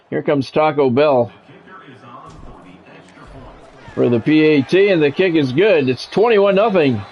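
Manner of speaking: measured TV announcer replay breakdown; walk the viewers through the replay; play-by-play commentary. Acted. Gamer narrating his own game to viewers, announcer read.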